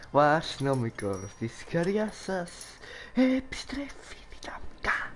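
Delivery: slow, hushed show intro; playful slow-motion announcer tagline; mock announcer. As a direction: draw out the tagline softly, like a teaser. Mock announcement of streamer's own return.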